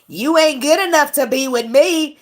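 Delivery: mock-haughty, stretched out; mocking imitation. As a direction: mimic someone acting too good for you. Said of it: "While they were saying".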